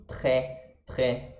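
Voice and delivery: tré with the R in the throat; tré, French back R and open E; throaty R. Shown as a demonstration. Teacher pointing out the small R, throaty tré. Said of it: "Sempre na garganta".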